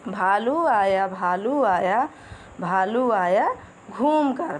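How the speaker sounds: slow sing-song nursery rhyme chant; rhythmic poem recitation. Acted. Teacher reciting a rhyme to children, slow and sing-song. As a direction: lilt each line slowly for little kids.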